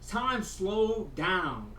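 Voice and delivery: stretched out very slowly; slowed-down mock trance; slow-motion drawl. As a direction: drag each word like time stopped. Slow-motion retelling of high.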